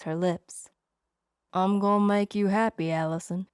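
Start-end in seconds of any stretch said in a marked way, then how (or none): 1.5-3.5 put-on charming Southern accent. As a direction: murmur it with a lightly played Southern charm. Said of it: "he breathed in his charming Southern accent".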